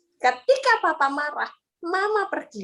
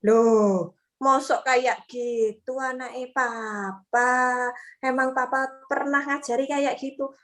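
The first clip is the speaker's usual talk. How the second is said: calm father. Retold or imitated. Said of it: "Papae harus menetralkan".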